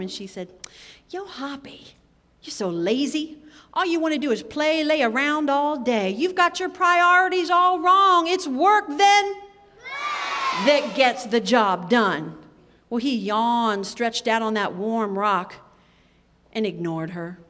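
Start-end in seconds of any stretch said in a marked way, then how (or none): 1.1-12.3 exasperated scolding. Acted. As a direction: scold the lazy friend, building to a shout. Zia scolds, louder again.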